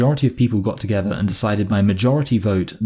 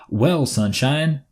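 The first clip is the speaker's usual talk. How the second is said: put-on slow, patronising drawl without the accent; a mocking smug "Well, sunshine"; condescending mock address; 5 semitones higher, much slower than usual. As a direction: talk down to them like a know-it-all. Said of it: "not gonna do the accent".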